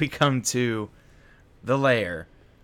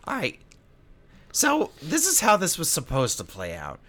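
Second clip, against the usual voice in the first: villain voice; 5 semitones higher than usual. Acted. GM voices Nilbog.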